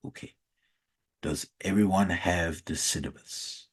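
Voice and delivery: put-on low Nigerian accent leaning on the S in "syllabus"; quiet Nigerian professor asking about the "syllabus"; Nigerian accent, stressed S. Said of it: "put the emphasis on the S".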